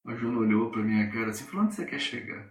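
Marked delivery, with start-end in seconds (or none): 1.6-2.4 whispered puzzled question. Retold or imitated.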